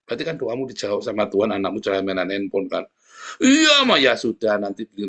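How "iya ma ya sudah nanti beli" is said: put-on crying child. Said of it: "anakmu nangis kan".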